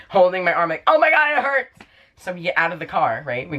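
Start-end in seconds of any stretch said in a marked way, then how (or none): 0.9-1.8 high mock wail of pain; retold bawling. Patient bawling to ambulance lady, retold wail. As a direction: imitate a pained cry, pitched way up. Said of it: "I just start bawling my eyes out".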